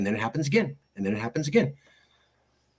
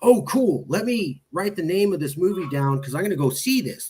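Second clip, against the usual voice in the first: higher-pitched mock excitement; naive enthusiasm; 5 semitones higher than usual. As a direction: gush like an eager movie fan. Retells his eager first thought.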